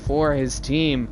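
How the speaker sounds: slow, drawn-out victory call; big, emphatic match-winning announcement; triumphant announcer call. Real, not acted. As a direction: stretch out each word of the win. Caster announces the winning kill.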